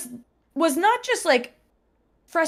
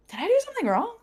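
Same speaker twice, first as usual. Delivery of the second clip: retold whisper; 11 semitones higher, faster than usual. Asking friend quietly mid-class.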